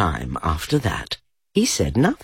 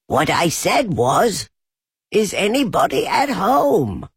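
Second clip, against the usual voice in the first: loud, higher repeat of Is anybody at home; very loud call; 10 semitones higher, 3 dB louder than usual. A narrator's reading. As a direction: call it out much louder this time. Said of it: "called out Pooh very loudly".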